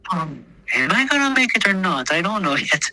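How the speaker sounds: high, nervous half-laugh, voice cracking. Retold or imitated. Wounded soldier under shelling, nervous laughing. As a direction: ask it high and shaky, then laugh it off.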